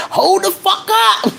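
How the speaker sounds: very high, drawn-out exclamation; voice acting up. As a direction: pitch it way up and stretch it. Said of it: "sometimes I be like".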